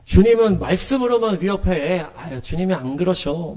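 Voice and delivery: dismissive mock of the crowd; sarcastic scoffing. The people scoffing at the prophet's warning, sarcastic. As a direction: brush it off with mild sarcasm. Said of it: "비꼬는 거죠".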